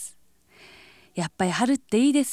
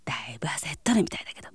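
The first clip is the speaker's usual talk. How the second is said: quick hushed aside; fast gossipy whisper; 6 semitones lower, 6 dB quieter, much faster than usual. Acted. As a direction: rattle off a whispered rumor.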